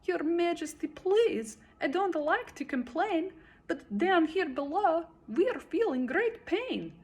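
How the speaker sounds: high, strained plea; groaning plea. A narrator's reading. Mac begging the king from the bottom, groaning. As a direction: groan out the complaint from below. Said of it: "groaned Mac".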